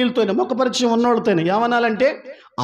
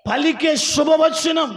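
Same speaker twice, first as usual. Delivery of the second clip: పలికే punched higher and slow; stress on పలికే; 6 semitones higher, slower than usual. Acted. Pastor stressing spoken words to the church, slow and emphatic. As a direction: hit పలికే hard and slowly.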